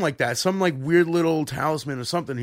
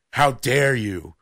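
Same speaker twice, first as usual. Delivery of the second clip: mock indignation; 4 semitones lower, much slower than usual. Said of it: "gave me that look like".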